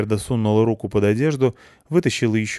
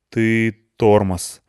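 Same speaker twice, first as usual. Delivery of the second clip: matter-of-fact; 2 semitones higher, 5 dB louder, much slower than usual. Acted. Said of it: "констатировал Петрович".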